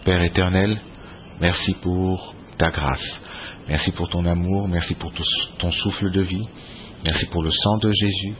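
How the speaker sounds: measured prayer voice; thankful radio prayer. Acted. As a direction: pray steadily before listeners. Leads a prayer.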